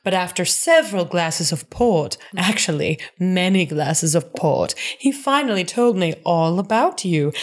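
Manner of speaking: sly threatening Geneva. Retold or imitated. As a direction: savour each word of the threat. Reads Geneva's blackmail threat.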